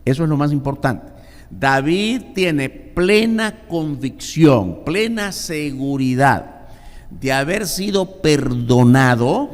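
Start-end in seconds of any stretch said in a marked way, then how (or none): 1.5-9.5 slowed, weighty words; slow emphasis. Acted. Preacher stressing David's certainty, slow. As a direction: lean on each word.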